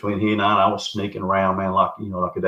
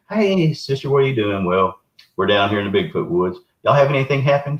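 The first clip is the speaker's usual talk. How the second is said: chirpy sister-in-law; 4 semitones higher than usual. Retold or imitated.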